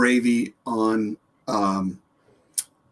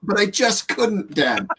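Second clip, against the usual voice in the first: high, whimpering puppy excuse; a guilty dog whining its apology; whiny dog voice; 7 semitones higher than usual. Pretend. Co-host voices the dog whimpering an excuse to Dad.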